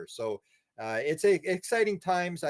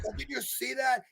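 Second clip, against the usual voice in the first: high-pitched amazed outburst; as if something just shot across the sky; awestruck cry; 10 semitones higher than usual. Retold or imitated. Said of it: "'Cause they want you to go".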